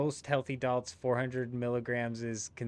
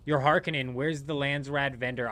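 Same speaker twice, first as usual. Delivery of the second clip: a light put-on British accent; 3 semitones higher, 4 dB louder than usual. Asking a friend about a vendor, lightly British accent. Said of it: "That was a horrible accent".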